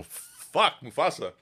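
put-on scary movie-villain voice; booming phone voice. Voice actor mimicking how he won't answer phones, menacing voice. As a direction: boom it out like a menacing character. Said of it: "answer the phone and go".

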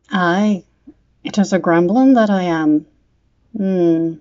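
sly leprechaun voice, lightly put on; a hint of a crafty old leprechaun. Leprechaun speaks to the boy.

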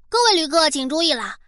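steady announcer read; airport announcement. Pretend. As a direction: read it like a station PA. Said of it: "都到了外星球了".

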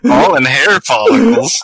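high-pitched, drawn-out amused repeat; incredulous laughing. Real, not acted. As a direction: echo it in disbelief through real laughter. Cracking up at absurd review.

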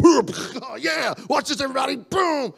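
high, loud hammed-up boasting; mock show-off kid. Father imitating his child spilling on purpose, mock boasting. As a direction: crow it like a child showing off a stunt. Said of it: "it's not like he's over there going".

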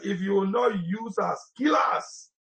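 high, urgent plea; impassioned quoted prayer. Retold or imitated. Preacher quoting a bold prayer to the congregation, impassioned. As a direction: build to a high, pleading finish.

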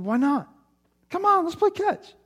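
put-on high, pleading kid voice; little boy whining. Sleepwalking boy begs his dad to play catch, high and whiny. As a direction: beg like a small child who wants to play.

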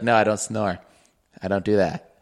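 mock him with a dumb low voice; mock denial. Roommate mimicking his cohost denying snoring, low dopey voice.

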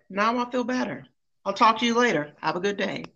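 lightly voiced breezy goodbye, all tears gone; mock calm. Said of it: "Just as calm".

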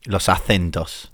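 "acentos" lento y bajo, con la C como Z; intento de Z española. Shown as a demonstration. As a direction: prueba despacio la C española de "acentos". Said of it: "No me sale bien". (pronunciación española tentativa)

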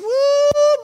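a sudden high yelping woo; John calling down from the treetop with a high whoop. Retold or imitated. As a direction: whoop like you just spotted something huge. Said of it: "he hollered back down".

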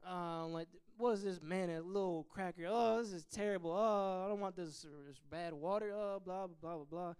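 whiny grumbling about the food, trailing off; hammed-up moaning over manna; mock complaining. Preacher mimicking Israelites griping about manna, whiny mock complaint. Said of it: "but they're complaining".

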